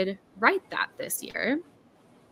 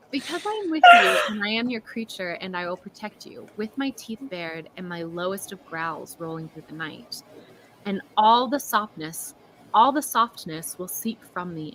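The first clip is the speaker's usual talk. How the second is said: dramatic reading; 2 semitones lower than usual. A narrator's reading. Author rereading Flora the Fawn's vow to listeners, dramatically.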